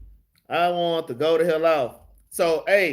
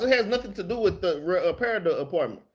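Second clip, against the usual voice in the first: ordinary delivery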